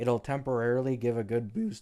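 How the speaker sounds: voice breaking and cracking. Speaking to viewers, the creator's voice cracks. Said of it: "holy voice crack".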